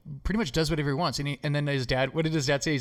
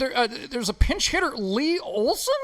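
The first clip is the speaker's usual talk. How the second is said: higher-pitched pretend game announcer; hammed-up pinch-hitter announcement; mock announcer; 10 semitones higher, 3 dB louder than usual. Host playfully announces a pinch hitter, mock announcer voice.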